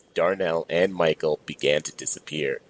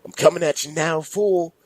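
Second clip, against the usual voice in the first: monster roar; 11 semitones higher than usual. Acted. Minotaur charging tourists.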